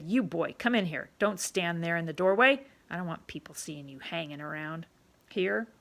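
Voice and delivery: put-on loud, bossy barkeep calling the boy in; a pushy tavern keeper ordering a kid about; rough London publican, loud and commanding; gruff pub owner. Pub owner voiced in story.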